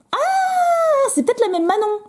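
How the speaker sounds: high, sudden "ah" of discovery; sudden bright surprise, pitched high; surprised realisation. Real, not acted. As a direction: it clicks that it's the same Manon. Realising it's the same sender.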